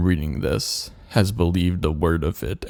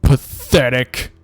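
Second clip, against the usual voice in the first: dark lord. Acted. Villain's grandiose threat monologue.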